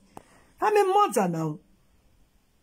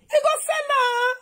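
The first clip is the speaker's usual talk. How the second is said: outraged shout. Real, not acted. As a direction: cry it out in disbelief. Outraged at baby sold.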